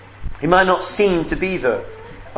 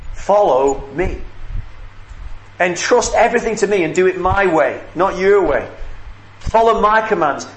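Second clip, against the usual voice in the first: earnest divine appeal. Acted. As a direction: call them to you, deliberately at first, then more insistently. Preacher voices Jesus calling listeners.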